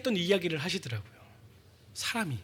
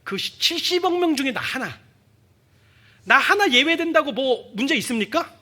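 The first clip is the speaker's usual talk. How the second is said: retold frustrated prayer; 4 semitones higher, 4 dB louder than usual. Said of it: "이런 기도를 했습니다".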